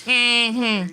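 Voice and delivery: mm-hmm swooping high then falling, knowing; a knowing high-pitched mm-hmm; sassy high mm-hmm. Shown as a demonstration. Chuck demonstrating a black woman's knowing mm-hmm. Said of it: "if you're a black woman".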